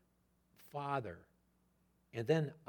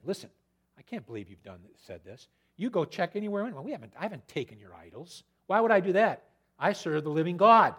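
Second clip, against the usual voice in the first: mild mock anger building louder; angry Jacob; 7 dB louder than usual. Jacob denying he stole idols, building to indignant. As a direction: protest innocence, swelling to indignant. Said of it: "he was angry".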